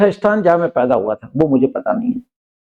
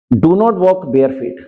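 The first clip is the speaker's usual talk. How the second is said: very slow, word by word; slow example sentence; much slower than usual. Shown as a demonstration. Teacher reading an example sentence to students, very slow. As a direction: read out each word slowly for learners. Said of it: "example sentence read slowly".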